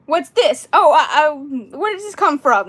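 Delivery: annoying niece, high and loud; Shelby. Shown as a demonstration. Doll asking a bunch of questions, annoying voice. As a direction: pepper them with pushy questions. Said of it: "A K A Annoying Shelby".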